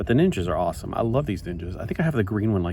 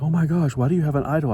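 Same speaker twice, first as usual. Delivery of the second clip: high, loud imitation of shocked coworkers; mock freak-out; 8 semitones higher, 5 dB louder, faster than usual. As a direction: ham up their panic, pitched way up. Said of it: "they were, like, flicking out".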